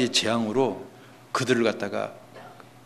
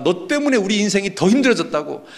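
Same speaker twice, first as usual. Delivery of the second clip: high, heated blaming; acted crowd grievance, exasperated; resentful protest; 8 semitones higher, 4 dB louder than usual. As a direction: pile on the complaints, pitched way up. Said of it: "원망하는 겁니다".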